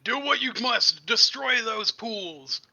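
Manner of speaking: loud, high, drawn-out rallying cry; slow, full-voiced heroic bellow; battle shout. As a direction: shout a command across the battlefield. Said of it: "turn around and shout".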